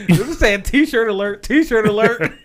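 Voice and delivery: excited shout. Real, not acted.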